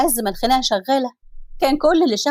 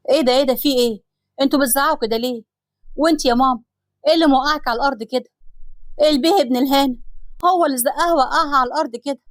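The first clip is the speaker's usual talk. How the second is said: alarmed anger; 3 semitones higher, faster than usual. Acted. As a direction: storm in and demand answers. Osama bursts into the fight.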